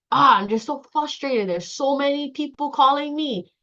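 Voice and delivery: acted frustration. Caller venting about too many calls, acted frustration.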